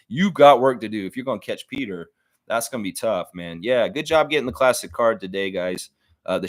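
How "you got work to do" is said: emphatic repeat. Real, not acted. Repeated to the fantasy rival.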